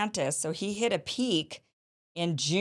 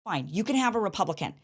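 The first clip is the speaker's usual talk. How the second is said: mocking Democrats; 5 semitones higher than usual. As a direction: ham up the scheming insiders. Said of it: "And they're saying".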